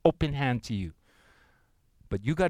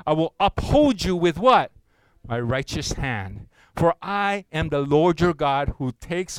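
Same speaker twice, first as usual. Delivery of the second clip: congregational scripture reading; 4 dB louder than usual. Acted. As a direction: lead the room through the verse. Congregation reads Isaiah together.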